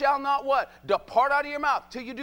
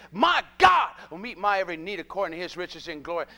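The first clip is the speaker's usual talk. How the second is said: declaring shout; 4 semitones lower than usual. Real, not acted. Declaring scripture in sermon.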